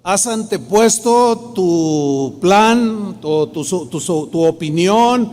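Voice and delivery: God's voice, firm yet loving; firm but loving. Retold or imitated. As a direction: scold gently but firmly, slowing down. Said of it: "sentía la voz de Dios firme, con amor, pero firme".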